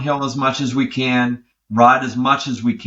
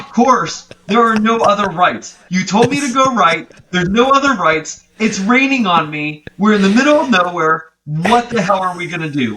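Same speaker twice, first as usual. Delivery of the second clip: higher, mock-exasperated rant; exasperated at the GPS; 5 semitones higher than usual. Lost rider ranting at the bike computer in the rain, exasperated. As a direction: vent at the computer, half-laughing frustration.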